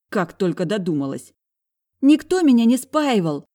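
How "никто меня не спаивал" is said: high, loud furious denial; high loud angry girl's voice. A narrator's reading. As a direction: snap back hard. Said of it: "злой голос".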